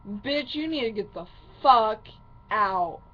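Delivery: angry retelling, leaning loud on "fuck" and "out"; retold pissed-off outburst. Daughter ordering mom out, retold pissed off. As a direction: retell it pissed off, punching the swearing. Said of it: "I was so pissed off".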